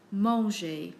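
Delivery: MANGER with a final "zhay"; French é sound. Shown as a demonstration. Teacher giving examples on screen, French é sound. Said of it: "it is pronounced like A".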